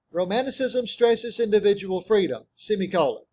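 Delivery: reading out with punctuation named; dictating. Shown as a demonstration.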